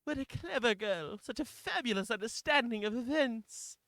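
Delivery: lightly affected character voice; trial character voice. Acted. Player tests a voice found for the character, lightly affected. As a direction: try out a mildly theatrical voice. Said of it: "Bear with me on this".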